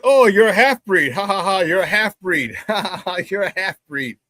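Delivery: imitating mates' mocking ha-ha taunt; teasing. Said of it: "they started teasing me".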